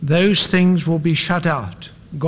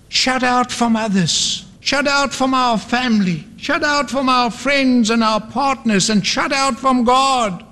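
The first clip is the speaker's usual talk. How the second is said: high, insistent preacher's lament; dramatic, high-pitched litany of despair; anguished cry; 7 semitones higher than usual. Acted. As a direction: cry out each loss at a raised pitch. Anguished climax of the story.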